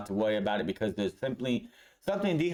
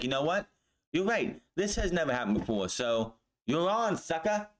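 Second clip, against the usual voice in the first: mocking taunt; 5 semitones higher than usual. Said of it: "But he's like".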